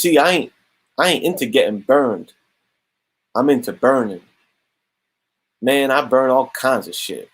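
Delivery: lightly attempted London street talk; bad London accent. Comic villain saying he burns things, poor London accent. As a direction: have a half-hearted go at London slang. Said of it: "That was not a good London accent".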